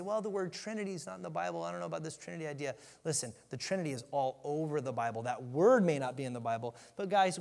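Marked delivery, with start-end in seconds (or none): 0.0-2.7 quick, softer skeptic's brush-off; lightly voiced doubter, hurried and softer; mock skeptic. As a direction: rattle it off dismissively like a doubter. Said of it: "people will say".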